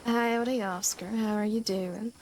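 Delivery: lightly put-on Southern drawl. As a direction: greet Oscar in an exaggerated drawl. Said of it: "Why are you talking like that?".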